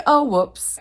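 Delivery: lightly voiced sheepish hero realizing his blunder; sheepish whoops. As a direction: play it like a guy realizing his mistake. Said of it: "he's like".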